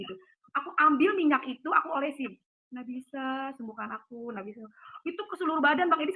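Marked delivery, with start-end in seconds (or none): 2.7-4.7 quiet prayer. Retold or imitated. Praying alone at night.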